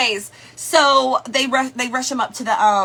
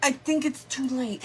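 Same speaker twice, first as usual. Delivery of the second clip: gentle; 2 semitones higher, 5 dB quieter than usual. Retold or imitated. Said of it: "gently trying to say".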